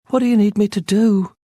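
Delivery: a frightened plea starting to crack into wailing; wail creeping back. A narrator's reading. Scared captive to his fellow prisoner, wail creeping back. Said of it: "a wail creeping back into his voice".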